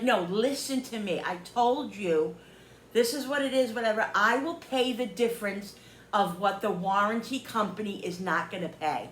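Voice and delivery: emphatic mock exasperation; frustrated insistence, imitated. Woman mimics seller trying to get through, frustrated. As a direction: spell it out, word by word. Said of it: "got so frustrated with me".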